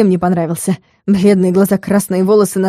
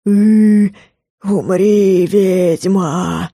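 smug ghoul; much slower than usual. A narrator's reading. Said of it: "довольное".

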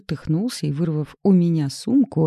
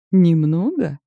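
louder teasing repeat; mock her word back; mocking echo; 6 dB louder, slower than usual. A narrator's reading. Nazar mockingly echoes Galya's claim, louder. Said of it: "переспросил с издёвкой".

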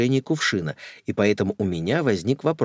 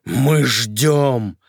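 louder, higher, insistent call; near shout; 4 semitones higher, 6 dB louder than usual. Acted. Sorcerer summoning the spirit, almost shouting. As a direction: nearly yell at the spirit. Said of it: "почти закричал колдун".

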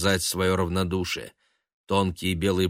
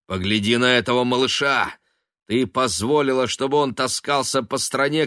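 angry tirade; 7 semitones higher, 4 dB louder than usual. Acted. Son's angry tirade at mother.

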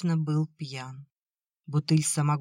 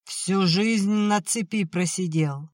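slow, grinding bitter growl; through gritted teeth; 3 semitones higher, 3 dB louder, slower than usual. Acted. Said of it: "Тимофей скрежетнул зубами".

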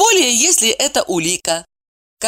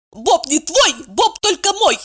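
curt retort; 10 semitones higher than usual. A narrator's reading. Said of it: "отрезала Евдокия".

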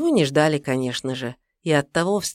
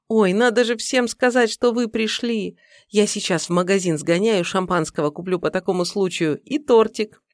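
put-on young woman voice; 4 semitones higher than usual. Secretary voiced by narrator.

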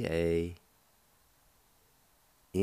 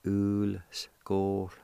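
slow demo word; slower than usual. Shown as a demonstration. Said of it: "You can pronounce the L with the G O like this".

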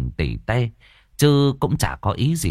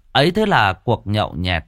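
ordinary delivery, nothing marked

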